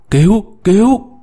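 trapped miner screaming help; shout for help. A narrator's reading. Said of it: "Ông lại ghé vào miệng ống gào".

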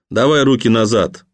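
plain reading voice

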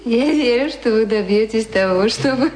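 usual speaking voice

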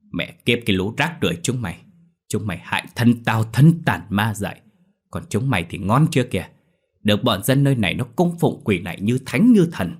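put-on fast angry drunken cursing at the shrine. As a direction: spit out the curses, fast and bitter. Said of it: "mà chửi đầu".

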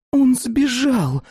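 high, furious cry; furious shout. Acted. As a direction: shout it in sudden fury. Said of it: "в ярости вскричала Фатида".

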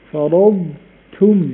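very slow فرضتم, ض held then ت; drawn-out فرضتم letting ض ring; slow clear dad. Shown as a demonstration. Teacher asks students to listen, slow demo. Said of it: "اسمعوا الصوت كده".

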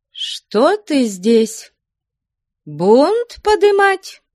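slow, high, imperious rebuke of a troublemaker; stern, cold, stately. A narrator's reading. Flyonushka rebukes Ustinya, stern and stately. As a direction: look down on her and command coldly. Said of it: "Строго, холодно, величаво сказала она".

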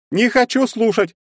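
high, loud cry of refusal; upset refusal. Acted. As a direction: shut him out completely. Olga refuses to listen.

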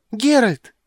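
put-on high, loud shrill child's scream of "Геральт!"; a little girl screaming a name with all her joy; thin piercing cry. Girl recognising the witcher, piercing high child's cry. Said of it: "кричит, тоненько, пронзительно".

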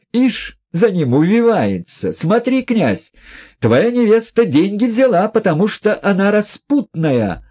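lightly voiced proud, bitter woman; proud Nastasya. A narrator's reading. Woman mocking herself before the prince, proud and bitter.

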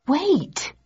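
high sharp call of wait. Acted. Narrator calling after the fleeing couple, high and sharp. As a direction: stop them before they leave.

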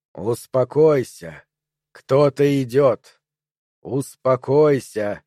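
slow, hushed soothing warning; calm him while someone is coming. Acted. The triangles slowly hush Perry as someone approaches.

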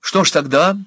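understated hard question; hard repeat. A narrator's reading. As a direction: repeat it coldly and firmly. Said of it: "повторила жёстко".

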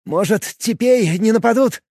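put-on young lad rolling r in the throat; burring r. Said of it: "прокартавил". (картавя)

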